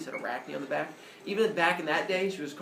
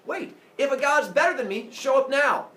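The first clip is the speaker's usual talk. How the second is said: raised, higher voice, calling out; defiant challenge; 8 semitones higher, 5 dB louder than usual. Acted. Arachne calls on any god to show up, acted defiant shout. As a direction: dare the heavens out loud.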